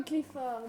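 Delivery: "Clifford" with a French "-ord" and sounded R; French-accented name. Shown as a demonstration. Guest repeats her own mispronounced word, French-style "Clifford". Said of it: "Elle dit vraiment comme".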